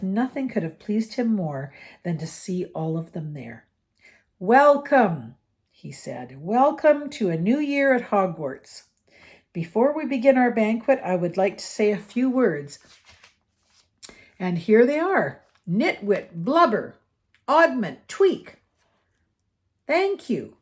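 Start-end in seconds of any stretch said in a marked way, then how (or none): 4.4-5.4 louder, higher, warm welcome to the hall; Dumbledore greeting. A narrator's reading. 6.4-20.6 louder, higher, warm welcome to the hall; Dumbledore greeting. A narrator's reading. Dumbledore's speech.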